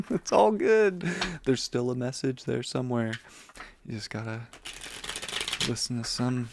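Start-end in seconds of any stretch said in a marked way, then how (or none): 0.1-1.0 laughing. Real, not acted. Laughing off mistakes.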